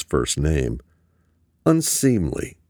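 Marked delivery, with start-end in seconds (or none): 1.6-2.6 high sneering mock of unseemly. A narrator's reading. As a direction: toss the word back with contempt. Mocking the word back.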